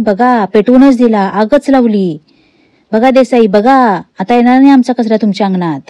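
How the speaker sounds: loud mocking yell across the yard; loud taunting yell. Nagraj yells at neighbour Desai, loud mocking call. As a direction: shout it out so the neighbours hear. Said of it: "मोठ्या मोठ्याने ओरडायला लागतो".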